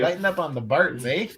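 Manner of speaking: playful Canadian "eh" ending; Canadian accent. Pretend. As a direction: lean into the Canadian "eh". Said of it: "classic Canada right there".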